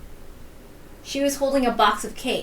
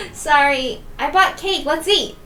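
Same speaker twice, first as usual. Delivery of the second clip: higher voice, laughter trailing off; still laughing; 5 semitones higher, 4 dB louder, slower than usual. Acted. Offering cake to her sister, laughter fading. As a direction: apologize while still amused.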